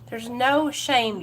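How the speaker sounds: no stretched out and stressed; slow emphatic reassurance. Real, not acted. Host reassuring viewers in recovery, slow and emphatic. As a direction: say it slowly so it sinks in.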